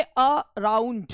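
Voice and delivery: "अराउंड" split slowly, weight on राउंड; stress on second syllable. Shown as a demonstration. Teacher showing students rising rhythm, stress on राउंड in "अराउंड". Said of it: "अराउंड में अ पे आवाज़ नहीं उठी".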